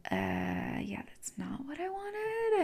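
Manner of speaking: soft, high, drawn-out whine; acted-out squirming reluctance, very quiet; reluctant refusal. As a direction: whisper into a reluctant, squeaky protest. Acts out reluctant refusal of gift.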